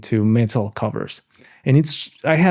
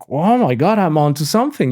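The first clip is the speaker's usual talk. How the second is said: higher-pitched mock amazement; retold excited realization; 4 semitones higher than usual. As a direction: re-enact a sudden thrilled discovery. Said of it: "and I was like".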